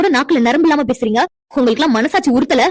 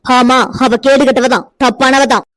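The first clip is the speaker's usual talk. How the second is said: contemptuous sneer; slower than usual. Acted. Mother-in-law sneers at widow.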